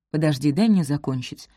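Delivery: hoarse, choked with feeling. Acted. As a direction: rasp it out, voice giving way. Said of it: "предательски хриплым голосом".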